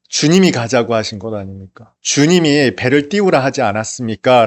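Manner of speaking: a touch of indignant reproach, half-acted; lightly voiced angry disciples grumbling; resentful anger. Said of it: "분노하는 마음으로". (가볍게 흉내 낸 분노 섞인 항의)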